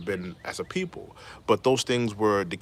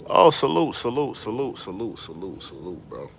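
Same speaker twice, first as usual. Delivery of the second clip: fading greeting. Real, not acted. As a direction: let the salute trail off.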